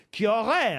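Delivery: "aurait" pushed out as a caveat; stress on AURAIT. Real, not acted. Quizmaster hedging a press rumour, "aurait" heavily stressed. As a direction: lean on "aurait" to flag the conditional. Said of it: "j'emploie le conditionnel".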